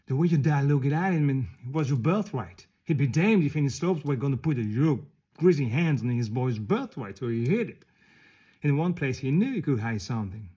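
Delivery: heated, forceful storytelling at full voice; indignant outburst. Acted. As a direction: build into outrage on the dead comrade's behalf. Indignant climax of acted monologue.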